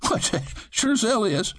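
high voice breaking into a laugh; Fred laughing at the spectacled hunter. A narrator's reading. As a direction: laugh it out in disbelief. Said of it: "Fred said".

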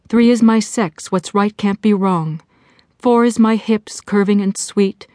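measured recitation of a counting rhyme; mantra recitation. Acted. Jessie saying her relaxation mantra aloud, measured recitation. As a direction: recite it line by line, pausing between. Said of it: "She began the mantra again".

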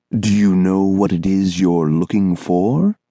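a lightly voiced, lilting strange man; smooth and musical, a bit too polite; singsong thin man. Thin man to the boy who bumped him, lilting.

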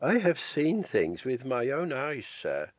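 put-on stern, hushed old housekeeper warning. A narrator's reading. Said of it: "she sternly warned".

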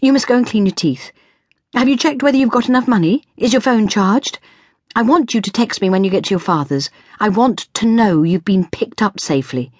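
high, anxious string of reminders; fussing parent. A narrator's reading. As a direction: fuss over a child leaving for school. Fussing mother gives reminders.

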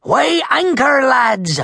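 high call across the deck; pirate captain's order. Acted. Captain Red sending the lads to sea, high call. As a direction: call out the order to set sail.

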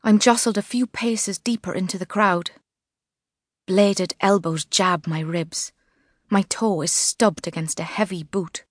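ordinary delivery

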